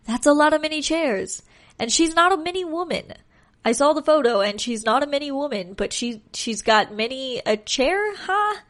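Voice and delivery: talking with a stuffy nose, like holding nose; blocked nose, as if pinching it shut. Real, not acted. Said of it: "I sound like I'm underwater or holding my nose".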